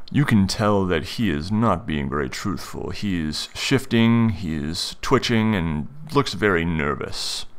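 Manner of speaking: slow, deliberate description of a suspect; game master narration. Acted. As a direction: describe his behavior point by point, slowly.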